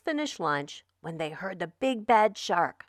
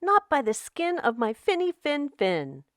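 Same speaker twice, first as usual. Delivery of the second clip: brave fish; 7 semitones higher than usual. Acted. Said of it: "the brave little fish replied".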